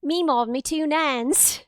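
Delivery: awful attempt at Southern and British at once; muddled put-on Southern-British accent; half Southern, half British, convincingly neither; botched Southern-British accent. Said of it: "like, Southern and British at the same time".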